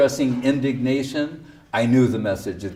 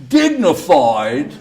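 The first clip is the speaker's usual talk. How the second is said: laughing disbelief; 2 semitones higher, 7 dB louder, much slower than usual. Retold or imitated. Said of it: "And he said".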